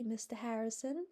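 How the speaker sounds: "Mister Harrison" with a pleading rise at the end; mournful plea. A narrator's reading. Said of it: "she mourned".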